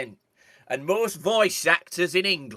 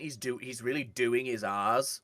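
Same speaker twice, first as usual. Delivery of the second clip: usual speaking voice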